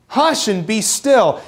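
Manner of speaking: slow, drawn-out parental shush; talking to a toddler. Shown as a demonstration. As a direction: ease the toddler down, slowly. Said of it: "the way you would talk to a toddler who needs to shush".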